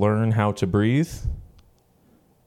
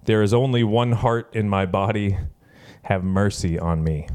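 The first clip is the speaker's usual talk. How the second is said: poem reading. Shown as a demonstration. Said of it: "goes like this".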